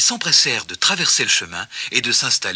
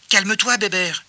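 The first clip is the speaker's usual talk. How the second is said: higher-pitched rabbit voice; calm him down in a raised pitch; pacifying; 7 semitones higher than usual. A narrator's reading. Rabbit calming the angry pig, pacifying.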